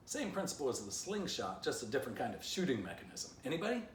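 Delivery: high, rising, eager asks; Poo Poo pleading. A narrator's reading. Poo Poo begs the group for a cannon, rising high.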